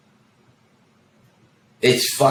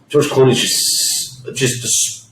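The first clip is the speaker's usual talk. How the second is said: breathy awe; 4 dB quieter, much slower than usual. Real, not acted. Awed admiration of Clooney.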